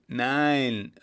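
loud shout of no; called out. A narrator's reading. Others in the crowd call out, loud shout. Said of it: "riefen noch mehrere".

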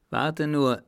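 high, loud angry warning; grim threat. A narrator's reading. Rope dancer threatens revenge after the fight, enraged. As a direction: warn him in fierce anger. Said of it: "drohte sie ergrimmt".

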